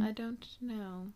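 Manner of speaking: slow hushed whisper. Real, not acted. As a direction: lean in and whisper conspiratorially. Both whisper in mock suspense.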